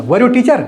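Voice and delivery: "Were you teacher?" with a clear rise; rising tune on "Were you teacher?"; question intonation. Shown as a demonstration. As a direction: ask it with the end lifted. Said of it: "इस तरह से बोलना".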